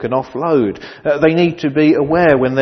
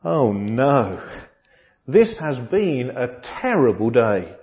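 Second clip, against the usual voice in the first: exasperated wife; 3 semitones higher, 4 dB louder than usual. Acted. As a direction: pile up the bad day, then peak in disbelief. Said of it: "His wife answered the door and exclaimed".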